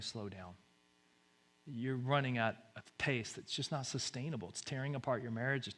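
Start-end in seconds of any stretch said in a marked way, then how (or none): 0.0-0.5 much softer, nearly breathless hush; God's whisper. Pretend. God whispering to the overworked listener, hushed. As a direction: let it fade to a whisper. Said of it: "that whisper is saying".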